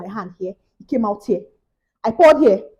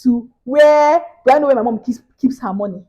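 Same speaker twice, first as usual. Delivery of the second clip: exasperated disbelief; 3 semitones higher, 4 dB louder than usual. Real, not acted. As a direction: pile up the absurd steps, baffled. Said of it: "exasperated rant".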